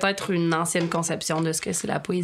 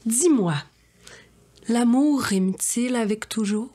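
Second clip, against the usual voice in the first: grand poetic questions; 3 semitones higher, slower than usual. Acted. Asks lofty poetic questions.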